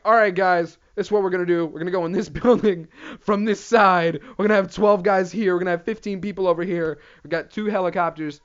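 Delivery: lightly hammed-up army briefing; mock commander. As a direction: announce battle plans like a TV general.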